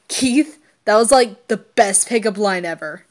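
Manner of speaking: loud amazed teasing; amazed exclamation. Acted. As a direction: gush at the pickup line. Hunk amazed at Keith's line.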